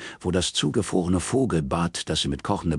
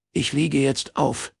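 curt, slow and higher; curt dismissal; 8 semitones higher, slower than usual. Acted. Robin hanging up on Morris, curt and cold. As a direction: cut him off coldly.

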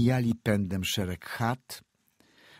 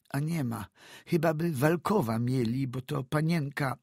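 put-on frightened old peasant woman; 7 semitones higher than usual. A narrator's reading. Old woman stammers to the doctor about the samovar, high and hesitant.

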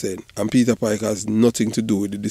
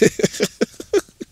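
high, breathless burst of laughter; laughing; 13 semitones higher than usual. Real, not acted. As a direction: crack up at the joke. Laughs at own joke.

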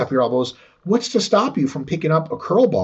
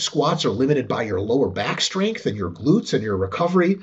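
ordinary talk, nothing marked

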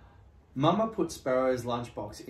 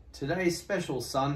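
proud papa; 4 semitones higher than usual. Acted. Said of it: "he said proudly".

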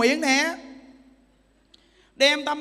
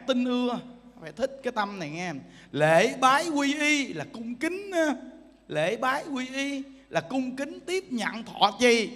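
normal talking voice

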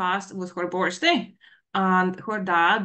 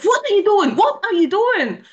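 high, loud angry shouting; daughter yelling; 11 semitones higher, 10 dB louder than usual. Retold or imitated. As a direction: yell it accusingly.

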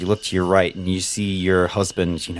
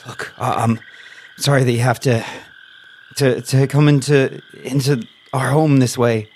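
apologetic captive; 3 semitones higher than usual. Acted. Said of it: "he's like".

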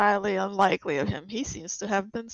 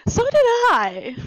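high; 13 semitones higher, 9 dB louder, slower than usual. Acted. Player echoes in put-on voice.

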